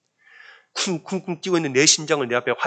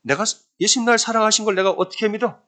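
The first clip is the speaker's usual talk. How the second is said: higher-pitched, questioning retold voice; doubting self-question; 8 semitones higher than usual. Woman asks herself how to believe, doubting self-question. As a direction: imitate someone questioning their own faith. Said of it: "본인이 스스로 질문을 했다는".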